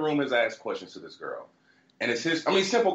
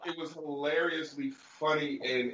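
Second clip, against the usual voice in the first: ordinary talk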